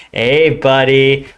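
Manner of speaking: a drawn-out, put-on friendly "Hey, buddy"; fake glad. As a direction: pretend you're happy to see him. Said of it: "can you fake, like, you're glad to see somebody".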